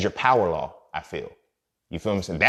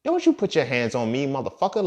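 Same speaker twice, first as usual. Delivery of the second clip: mild mock anger; 5 semitones higher than usual. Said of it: "I got real mad".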